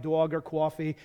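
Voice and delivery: East Coast vowels on dog and coffee; East Coast accent. Shown as a demonstration. Preacher showing the congregation how his childhood speech returns, East Coast accent. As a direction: slip into an East Coast pronunciation. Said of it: "my speech sometimes goes back".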